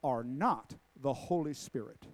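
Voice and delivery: put-on thick New Orleans accent, slow and loud; drawn-out New Orleans preacher accent, booming first word; Marvin Gorman. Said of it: "He'd say in this thick New Orleans accent".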